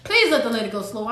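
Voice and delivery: soft, low pleading prayer; hushed prayer. Retold or imitated. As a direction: beg the Lord under your breath. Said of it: "asking the Lord".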